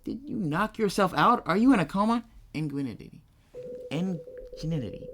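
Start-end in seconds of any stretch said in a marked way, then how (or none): 2.5-5.1 "Ingenuity." drawn out slowly and still tangled; slow retry. Shown as a demonstration. Streamer slowly retrying the word he keeps fumbling. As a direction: say "Ingenuity." slowly, getting lost mid-word. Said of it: "I can't say it!".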